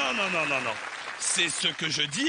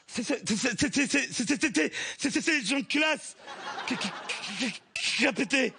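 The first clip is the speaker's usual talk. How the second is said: stuttering; 5 semitones higher than usual. Acted. Stuttering mechanic character.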